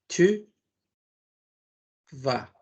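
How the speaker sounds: usual speaking voice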